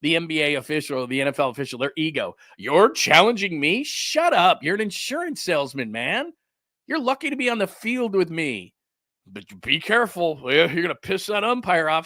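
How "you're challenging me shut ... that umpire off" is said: a hint of an arrogant umpire brushing off a challenge; mocking ego-tripping umpire. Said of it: "the ego of the umpire".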